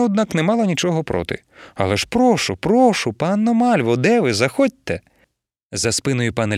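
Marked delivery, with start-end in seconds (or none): 1.7-5.0 louder, higher call to come in. Acted. Wife calling the hidden guest into the bedroom, calling out loudly.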